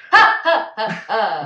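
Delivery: staccato ha-ha burst; loud fake laugh. Friend performing a movie laugh, loud and fake. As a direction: punch out pretend laughter. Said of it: "That was so loud".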